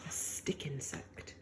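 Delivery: a hushed, drawn-out storyteller's whisper; slow whisper. A narrator's reading. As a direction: whisper it slowly like a secret. Hushed creature announcement.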